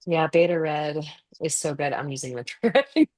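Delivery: shaky voice from a vibrating massager. Real, not acted. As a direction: let the vibration rattle the voice. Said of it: "you can hear my voice vibrate".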